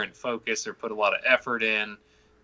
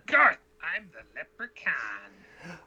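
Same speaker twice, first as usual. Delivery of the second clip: slow, higher leprechaun voice; lightly voiced leprechaun; 5 semitones higher, slower than usual. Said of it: "You can also say".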